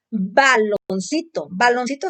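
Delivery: Baloncito spoken slowly, syllable by syllable; slow repeat-after-me. Shown as a demonstration. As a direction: model Baloncito slowly so the child can follow. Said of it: "Repite conmigo".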